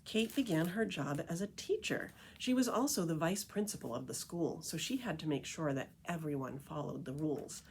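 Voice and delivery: lively picture-book read-aloud voice; story narration. A narrator's reading. Reading The Tree Lady to listeners, storytelling narration. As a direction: read it like a storyteller to a group of kids.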